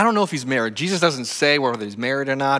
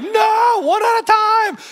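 high shouted order guarding the candy; frantic shout; 7 dB louder, slower than usual. Retold or imitated. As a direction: bark the order over the crowd. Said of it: "He's like".

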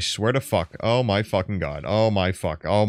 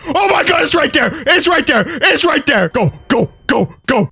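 much higher, louder frantic shouting; freaking out; 7 dB louder than usual. Real, not acted. Gamer spots the level five dragon, frantic high yelling. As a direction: lose it completely at the sight of the boss. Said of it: "why I'm freaking the fuck out".

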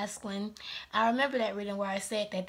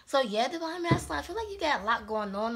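out of breath; 4 semitones higher than usual. Real, not acted. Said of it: "that's why I'm out of breath".

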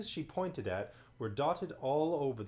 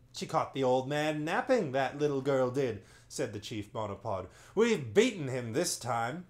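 louder smug chief voice; boastful chief; 5 dB louder than usual. Acted. Chief monopod boasting about beating the magician, smug. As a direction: gloat over the old man.

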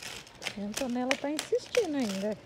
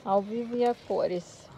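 tripping and falling; slower than usual. Real, not acted. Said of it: "Há um tombo ao vivo".

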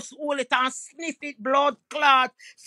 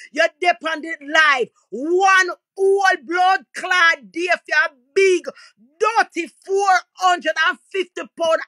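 higher, louder, slow crying shout; furious yelling rant; 3 semitones higher, 4 dB louder than usual. Real, not acted. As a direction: yell it out, voice cracking with rage. Furious rant at the lazy man.

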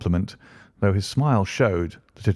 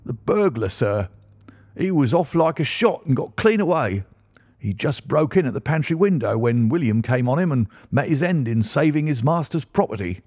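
high-pitched, agitated servant's voice; shaken butler; 7 semitones higher than usual. Acted. Butler tells the Colonel who was killed, agitated. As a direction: report it urgently, pitch leaping up.

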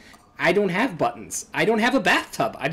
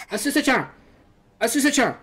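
calling out; 7 semitones higher than usual. Acted. Voicing Mio calling her friend.

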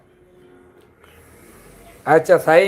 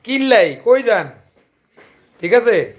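Chandpur dialect; 3 semitones higher, slower than usual. Shown as a demonstration. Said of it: "আঙ্গ সাতপুরিয়া ভাষা".

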